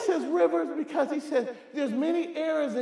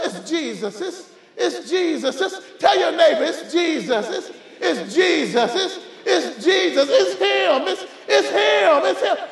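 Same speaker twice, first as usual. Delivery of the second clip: preacher's chant, repeating it to the devil and neighbor; telling the devil; 3 semitones higher, 4 dB louder than usual. Pretend. Congregation telling neighbor it's Jesus, in a rising testifying chant. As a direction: say it back and forth, testifying. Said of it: "just tell the devil".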